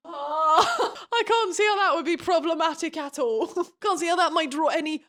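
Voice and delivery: laughing through mock disbelief; sarcastic laugh. Real, not acted. Sarcastic aside about Xaden.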